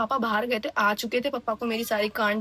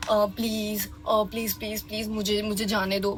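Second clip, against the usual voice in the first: mock emotional-blackmail plea; pleading. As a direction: beg mom to let her go to college. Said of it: "emotionally blackmail type बोलते".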